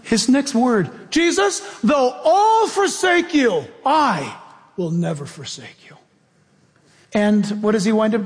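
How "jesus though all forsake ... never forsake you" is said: Peter's boast. Retold or imitated.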